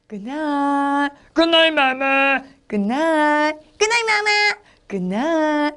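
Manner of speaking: slow bedtime goodnights traded between monkeys; sing-song mama and little monkeys saying goodnight; lively storytelling. Shown as a demonstration. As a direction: act out each monkey, drawn out. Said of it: "이렇게 실감나게 재밌게 해야지".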